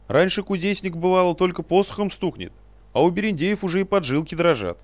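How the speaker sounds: very high, loud indignant scolding; a tiny old man lecturing in fury; squeaky scolding sage. Acted. Little sage scolds the captain.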